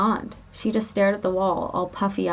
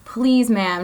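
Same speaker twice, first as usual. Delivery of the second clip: pleading; 3 semitones higher, 5 dB louder than usual. Acted. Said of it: "Shay pleaded".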